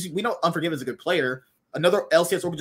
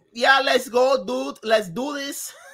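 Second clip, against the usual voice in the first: failed, clumsy put-on Italian accent; 7 semitones higher than usual. Imagining what a player might say, the speaker uses a failed fake italian accent. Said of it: "You failed that accent".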